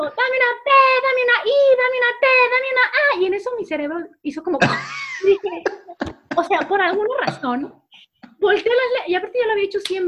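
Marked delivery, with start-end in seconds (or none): 0.0-3.2 high, loud cheer with the letters jumbled; botched cheerleader yell. Retold or imitated. Cheerleader Patty on stage, high loud cheer yell, letters wrong. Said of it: "Y entonces digo". 4.6-5.2 high shriek. Retold or imitated. Brain freezing mid-cheer.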